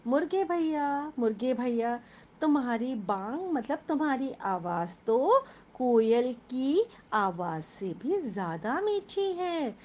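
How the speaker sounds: lightly voiced sweet fox, coaxing; sweet-talking fox. Teacher voicing the fox flattering the rooster, mildly sweet. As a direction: coax the rooster like a honeyed flatterer. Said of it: "लोमड़ी ने मीठी आवाज़ में कहा".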